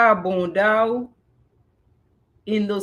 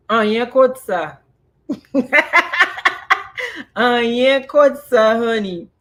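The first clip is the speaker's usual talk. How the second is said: excited mock call; 4 semitones higher, 5 dB louder than usual. Mimicking the village voices, laughing.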